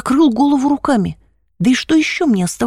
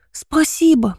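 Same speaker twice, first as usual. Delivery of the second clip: сквозь слёзы; 4 semitones higher, slower than usual. Acted. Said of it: "проговорил я сквозь слёзы".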